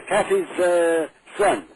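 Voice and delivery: ordinary talk, nothing marked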